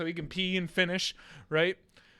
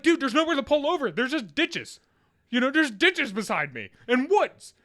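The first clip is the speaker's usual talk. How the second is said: raised, flustered protest; mildly panicked; 8 semitones higher, 5 dB louder than usual. Retold or imitated. Uncle driving with nowhere to pull over, flustered. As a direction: plead with a screaming kid. Uncle frantic beside screaming child.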